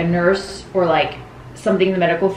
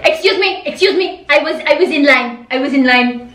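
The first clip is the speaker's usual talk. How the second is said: mock indignant yell; 4 semitones higher than usual. Mom yelling at old lady over place in line, indignant. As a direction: imitate an indignant mom, repeating herself. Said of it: "then she yelled at the old lady".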